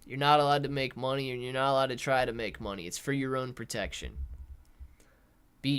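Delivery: mock-reassuring sarcasm; sarcastic. Real, not acted. Streamer mocking government protection to a viewer, sarcastic. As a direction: feign official concern, dripping with sarcasm. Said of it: "I'm being sarcastic, man".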